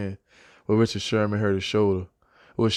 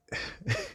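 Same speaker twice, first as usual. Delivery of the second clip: stifled laugh; 13 dB quieter than usual. Real, not acted. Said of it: "I'm trying not to laugh".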